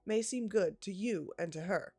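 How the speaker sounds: boastful elder pressing his claim; self-important suitor. Acted. Staggerson proposes for Lucy.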